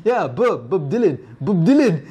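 lightly imitated Frenchman saying a singer's name, amused; French-accented name, short vowels, laughing. Kevin Kline repeating himself to Meg Ryan, French accent. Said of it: "in his French accent".

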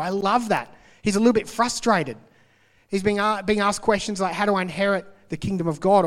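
reading the Bible passage aloud to the congregation; scripture reading. Acted. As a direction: read it out like a preacher at the pulpit. Reads scripture passage in sermon.

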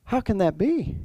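a touch of disbelief in a retold question; mildly amazed. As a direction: wonder aloud, as if it can't be possible. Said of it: "he's amazed".

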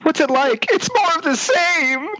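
high voice fighting back laughter; holding in a giggle, voice squeaking up; stifled giggles. Real, not acted. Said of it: "Sorry, I'm trying not to laugh".

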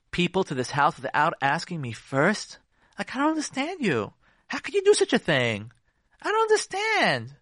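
high-pitched indignant disbelief; baffled, reproachful questioning, rising high. Acted. Upset wife confronting her husband, indignant. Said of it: "Here's what you say".

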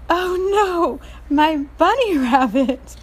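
put-on high, slow little-girl wail over her bunny. Reading the picture book to listeners, a high little girl's lament. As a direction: play a small girl sad about her toy.

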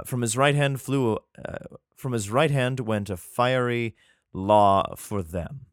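measured, solemn Bible reading; scripture reading. Acted. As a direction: read it like scripture, steady and slow. Reads scripture aloud.

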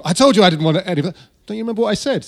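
a client scolds his architect in a mild mock rage; mock angry outburst. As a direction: play the furious merchant, half-hearted and quick. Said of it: "Hemingway hits the roof".

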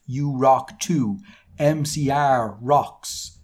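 slow, deliberate mock dedication; drawn-out, word-by-word delivery; author's note read-out. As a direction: labour every word for comic effect. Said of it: "This is the author's note".

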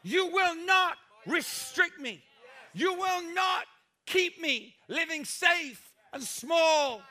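stare down disappointment and refuse it; defiant declaration. Pretend. The pastor voices believers defying their disappointment, defiant shouting. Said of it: "and say".

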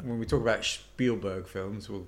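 a slip into a German accent on Spielberg; accidental German accent. Real, not acted. To his co-host, slipping into a German accent. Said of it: "I sounded like a German".

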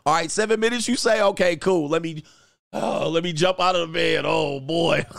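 high, eager, hurrying her out; hammed-up eagerness to see her go; eager mock hurry. Acting himself rushing her out.

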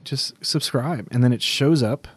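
congested voice with a head cold; stuffy nose. Real, not acted. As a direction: talk through a stuffy nose. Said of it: "You sound a little stuffy".

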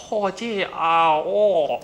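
put-on high, slow caricature Asian accent; mock Asian accent. Director demoing the crude Asian accent he wants. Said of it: "can you do an Asian accent too".

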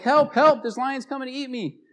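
high, loud cries for help; panicked yelling. Retold or imitated. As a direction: yell for help as the lion closes in. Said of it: "So he's yelling".

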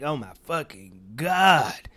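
whispered. Retold or imitated. Reaction, whispered.

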